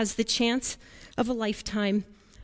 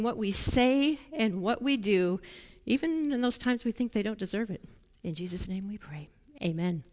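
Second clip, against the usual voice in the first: prayer; 3 dB quieter than usual. Real, not acted. Leader prays with the children for help showing respect, softly prayerful. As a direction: lead a gentle prayer, dropping away at the close. Will you pray with me?.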